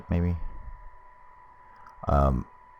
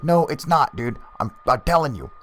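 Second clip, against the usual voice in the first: high-pitched mock arguing; adamant denial; 9 semitones higher than usual. Man arguing with his friend, mock adamant. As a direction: contradict him in a high, worked-up voice. Retold back-and-forth quarrel.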